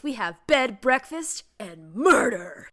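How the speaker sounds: slow, ominous announcer reveal; dramatic voice. Shown as a demonstration. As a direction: drag out the last word ominously. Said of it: "speaking of dramatic voice".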